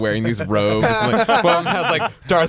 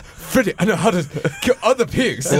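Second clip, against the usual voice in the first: higher, laughing mock of a friend's dad; hammed-up imitation of a friend's father, higher and laughing; 5 semitones higher than usual. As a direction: tease the dad's line while cracking up. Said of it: "I'm gonna".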